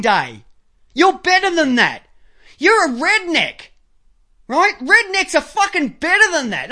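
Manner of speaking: indignant, emphatic reproach; angry scolding. Real, not acted. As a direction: scold a friend who has let you down. Berates Drew directly.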